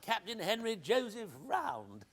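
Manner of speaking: high, loud jovial hail; hearty greeting. Acted. Eckersley bursting in on Round, loud and jolly. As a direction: boom out a delighted hello.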